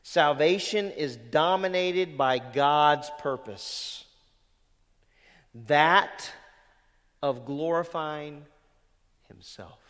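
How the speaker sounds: slow, weighty reading of the quote; first measured read of the quote; slow deliberate reading. Shown as a demonstration. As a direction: lay out Salvation is dominated by God's purpose word by word. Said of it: "You get that?".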